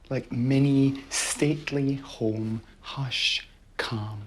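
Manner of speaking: golf commentator. Acted. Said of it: "No wonder we're speaking in hushed tones".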